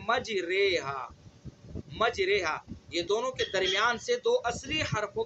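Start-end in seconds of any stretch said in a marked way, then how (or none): 0.1-2.6 مجریہا with a vowel between alif and ya. Shown as a demonstration. Teacher modelling correct imala. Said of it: "دونوں کے درمیان کا پڑھنا ہے".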